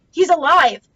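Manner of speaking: loud commanding declaration; authoritative. Acted. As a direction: put all your authority into it. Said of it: "putting all the authority I could into my voice".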